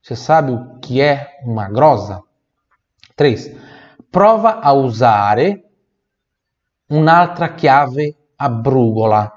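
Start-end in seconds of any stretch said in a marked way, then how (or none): 4.1-9.3 "prova" drawn out slowly; slow teacher model of the line; slow model phrase. Shown as a demonstration. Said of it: "teacher models phrase".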